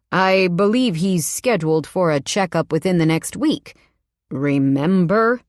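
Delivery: a hint of a cold, correcting man; lightly voiced stern husband. Husband correcting his wife, in a hint of a stern voice.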